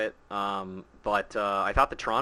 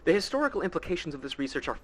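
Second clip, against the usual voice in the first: lightly voiced scholar; 4 semitones higher than usual. Reads NPC quest dialogue aloud.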